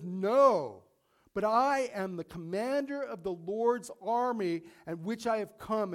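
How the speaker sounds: loud, firm "No" then a proud proclamation; commanding declaration. Retold or imitated. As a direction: answer as the commander of the Lord's army. Commander of Lord's army answers.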